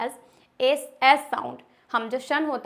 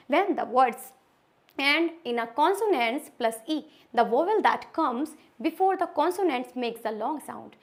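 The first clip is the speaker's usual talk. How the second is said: slow rule reading; much slower than usual. Shown as a demonstration. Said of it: "For example".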